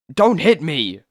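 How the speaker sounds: high scared cry; frightened plea. Acted. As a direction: beg not to be hit. Man fears being struck.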